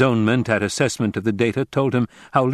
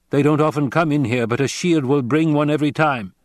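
a grave stranger giving a warning; Fremen warrior; 6 semitones higher, 3 dB louder than usual. Acted. Narrator voices the Fremen.

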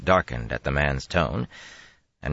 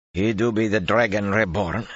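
doubtful; 5 semitones higher than usual. Acted. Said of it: "said doubtfully".

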